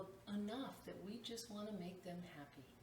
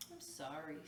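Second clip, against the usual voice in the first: a light sigh on sorry; sighed apology; 3 semitones lower than usual. Acted. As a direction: let the sorry fall out on a breath. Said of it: "sighed the tree".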